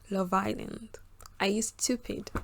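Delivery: hushed, voiceless aside to the viewers; playful whisper. Pretend. Vlogger teasing viewers about Love Island, whispered.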